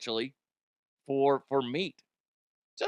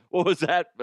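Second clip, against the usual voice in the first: sharper, louder what was that; mock indignant repeat; 2 semitones higher, 6 dB louder than usual. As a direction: demand it again more loudly. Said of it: "louder repeat".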